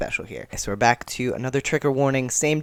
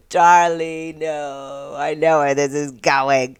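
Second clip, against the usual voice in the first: alarmed Nick; 3 semitones higher, 4 dB louder, much slower than usual. Acted. Nick alarmed, knows what's coming.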